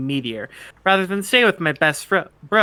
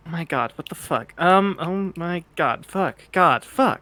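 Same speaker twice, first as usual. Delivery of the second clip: flustered. Acted. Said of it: "Dave Sprite says".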